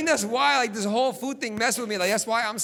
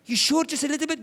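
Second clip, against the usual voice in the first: pushy mom; 5 semitones higher than usual. Retold or imitated. Mom pushing tomato juice.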